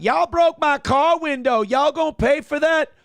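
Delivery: high loud mocking hood voice; loud ghetto woman. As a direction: yell it like an angry neighbor. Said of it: "chicken head from the hood coming out".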